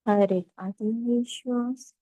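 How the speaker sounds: calm, measured meditation guide with long pauses; guided meditation. Acted. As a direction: ease them into stillness, phrase by unhurried phrase.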